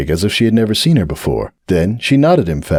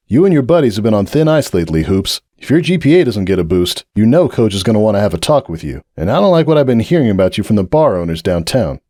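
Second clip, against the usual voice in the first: scolding captain. Acted. Breakaway scolds Hoops.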